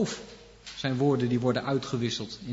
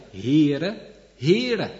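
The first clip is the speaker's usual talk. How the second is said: rising, louder proclaiming call; calling out the name; 3 semitones higher, 5 dB louder than usual. Acted. The Lord calling his own name, loud proclamation.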